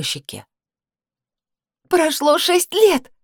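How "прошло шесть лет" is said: very high, slow, near-tearful cry; cry out near tears. A narrator's reading. Sister near tears, crying out at her brother. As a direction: plead on the edge of crying. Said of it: "вскрикнула я, едва не плача".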